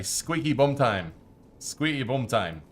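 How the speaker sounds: slow, drawn-out bad Scottish accent; a clumsy Scottish manager impression; terrible Scottish accent. Streamer quoting Fergie to chat in a bad Scottish accent. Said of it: "Sorry for my terrible Scottish accent there".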